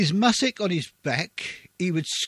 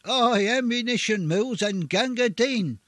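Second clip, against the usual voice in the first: front-file shout; 6 semitones higher than usual. Retold or imitated. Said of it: "you could hear the front file shout".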